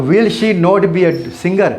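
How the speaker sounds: slow, every word separate: will she not be; slow full form. Shown as a demonstration. Teacher reading the full form to students, slow and careful. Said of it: "will और नोट को मिला दो".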